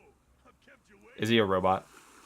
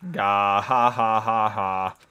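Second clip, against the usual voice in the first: robot voice; 3 dB louder, much slower than usual. Acted. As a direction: speak like a booming robot. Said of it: "I gotta do a robot voice".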